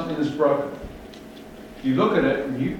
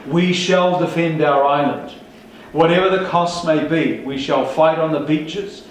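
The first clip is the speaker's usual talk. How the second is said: 1 quoting Churchill. Retold or imitated. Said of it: "he said".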